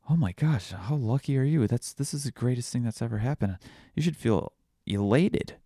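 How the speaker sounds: high, eager villager gushing over luck; mock excitement. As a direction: gush like a neighbour who thinks it's wonderful news.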